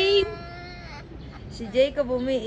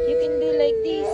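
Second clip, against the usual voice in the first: much higher, quicker, sing-song take of "You can do like this"; high playful; 9 semitones higher, faster than usual. Shown as a demonstration. Mother showing her child, in a high playful voice. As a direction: lift it high and playful for the kid. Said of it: "higher repeat".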